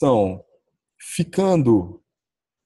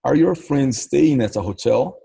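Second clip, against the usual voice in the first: slow teaching read; 2 semitones higher, slower than usual. Shown as a demonstration. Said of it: "É assim que se pergunta em inglês".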